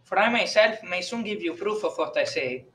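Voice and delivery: put-on softly spoken priest with an Italian accent; pronounced Italian accent. A narrator's reading. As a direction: speak quietly in a thick Italian accent. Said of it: "in a pronounced Italian accent".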